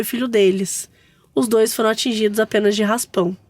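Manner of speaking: steady, even read-aloud; story narration. A narrator's reading. Host reads mother-in-law's funeral mishap to co-hosts, story narration. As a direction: tell the tale as written, evenly.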